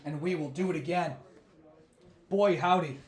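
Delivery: losing voice, hoarse and worn; rough, tired hoarse voice. Real, not acted. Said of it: "I'm losing my voice yet again".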